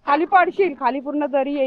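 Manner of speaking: sharp, high, loud warning to the dog; alarmed call to a pet; warning shout. Real, not acted. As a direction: warn him off the edge. Warning dog near the drop.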